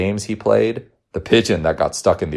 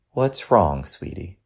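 gentle concern; 2 semitones higher, slower than usual. Acted. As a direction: soften right down on sweetie. Mother asks again, closer, squeezing gently.

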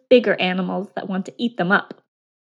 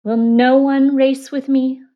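trickster tale voices; 4 semitones higher, 5 dB louder than usual. Acted. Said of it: "said the hare".

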